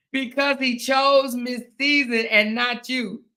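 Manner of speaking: reading through laughter, slowed; can barely get the words out for laughing; laughing while reading. Real, not acted. Reading the hater's comment to viewers, laughing.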